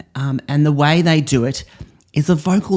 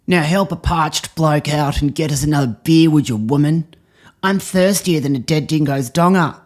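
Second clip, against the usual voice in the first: higher, put-on blokey lecturing voice; hammed-up Aussie bloke; 4 semitones higher than usual. Improv actor playing a lout lecturing his girlfriend. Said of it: "you say".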